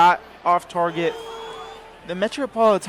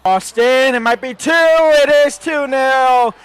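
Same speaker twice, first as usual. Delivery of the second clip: exasperated; 6 semitones higher, 6 dB louder than usual. Real, not acted. Conceding second goal, exasperated.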